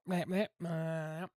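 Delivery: slow demo of dog noises; imitating dog sounds. Shown as a demonstration. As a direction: show the dog's short and long calls. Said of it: "See that?".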